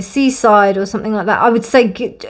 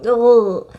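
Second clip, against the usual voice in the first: heartfelt ugh. Real, not acted. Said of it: "I'm just like".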